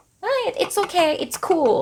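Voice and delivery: casual unbothered reassurance. Acted. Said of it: "cool with something ก็คือฉันแบบ".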